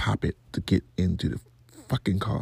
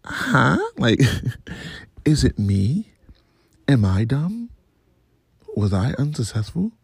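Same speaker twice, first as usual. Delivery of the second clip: baffled; 4 semitones higher than usual. Retold or imitated. Acts own baffled reaction, feeling dumb.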